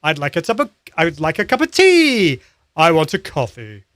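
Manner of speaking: phrase swung through highs and lows; lively sing-song demo phrase; varied pitch. Shown as a demonstration. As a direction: bounce the tune up and down on tea. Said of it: "use the highs and the lows in your voice".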